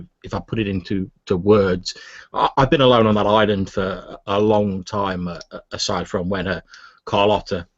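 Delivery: hesitant, stammering recluse; lightly voiced, flustered; a lonely islander covering his embarrassment; nervous old scholar.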